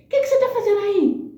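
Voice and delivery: high, sharp reproach; a boss catching her out in front of everyone; scolding boss. Retold or imitated. (bronca aguda e bem mais alta da chefe)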